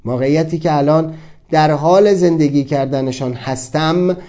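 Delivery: measured, formal recitation; formal reading. Acted. Reading his own written question aloud, formal and measured. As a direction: read it like a written reflection.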